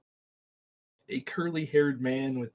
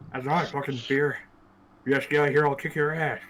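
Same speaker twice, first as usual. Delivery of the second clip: put-on belligerent drunk; 6 dB louder than usual. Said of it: "That's me trying to talk with an overweight".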